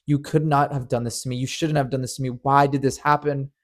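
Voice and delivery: replaying the rage, half-shouted; what the fuck, thrown out in a mild mock yell; retold angry yelling. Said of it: "yelling in a fit of rage".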